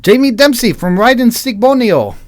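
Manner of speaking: put-on high, loud Asian-accented announcement. Newcomer naming their friend, high loud Asian accent. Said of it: "my Asian accent when I was doing Persis".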